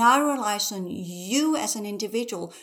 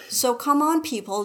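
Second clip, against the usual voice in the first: higher, louder rallying plea; exhorting call; 4 semitones higher, 4 dB louder than usual. Real, not acted. Host pleading with listeners to act, loud call. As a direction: push the audience, loud.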